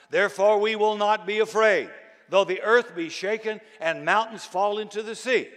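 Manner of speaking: loud, ringing psalm reading; preacher crescendo on scripture; proclaimed scripture. Acted. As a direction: lift the verse up like a battle cry. Reading psalm with rising force.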